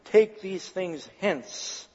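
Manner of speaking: slow, deliberate order; authoritative command. Acted. Jesus orders the traders out, authoritative command. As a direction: command it with measured weight, unhurried. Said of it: "With authority he commanded".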